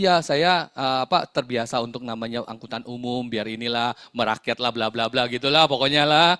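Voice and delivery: mock long-winded self-justification; overdramatic. Man explaining why he rides the bus, overdramatic. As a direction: imitate someone laying on excuses a bit thick. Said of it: "gitu lebaynya".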